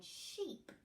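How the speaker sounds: Sheep with a long hissed shh start; stretched sh. Shown as a demonstration. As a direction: lean on the sh in Sheep. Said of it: "beginning, middle or end".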